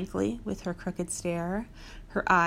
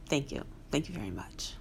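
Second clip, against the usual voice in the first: much lower, soft, crooning rock star; 6 semitones lower, 8 dB quieter, faster than usual. Retold or imitated. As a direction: drop into a deep lip-curled croon. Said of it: "doing the Elvis lip".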